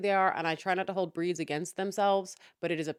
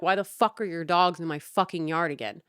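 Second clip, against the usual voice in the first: angry retort; 5 dB louder than usual. Retold or imitated. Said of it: "And I'm like".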